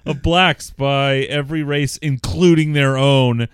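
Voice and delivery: loud, emphatic read-out; reading a letter aloud. A narrator's reading. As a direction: read it out with weight on key words.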